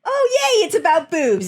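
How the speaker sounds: high-pitched imitated cheer; mock delight. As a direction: switch to her gleeful yay. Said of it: "because she's like".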